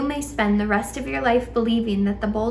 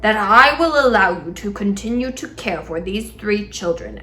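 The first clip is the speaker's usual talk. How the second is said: exasperated; 3 dB louder than usual. A narrator's reading. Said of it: "in an exasperated voice".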